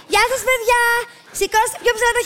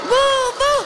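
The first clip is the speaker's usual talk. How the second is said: higher-pitched booing chant; loud booing; 4 semitones higher than usual. Acted. Friend boos the fox still hiding there, loud booing. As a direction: keep booing to drive it away. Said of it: "Δυνατά, ακόμα εκεί είναι".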